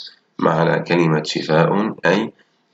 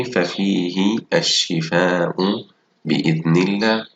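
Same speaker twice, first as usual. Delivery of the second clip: slow reading; slower than usual. Shown as a demonstration. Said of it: "ألاحظ الجمل وأقرأها".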